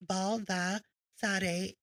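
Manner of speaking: Baldassare sounded out very slowly; slow, deliberate Baldassare; careful pronunciation demo. Shown as a demonstration. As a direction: spell out Baldassare by ear, part by part. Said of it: "Pronounced as Baldassare".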